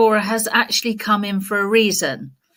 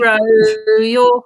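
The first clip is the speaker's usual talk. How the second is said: plummy posh English singing; posh English accent, sung slowly; 6 dB louder than usual. Pretend. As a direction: sing it as posh English Laura. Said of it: "I'm just going back to Posh Laura".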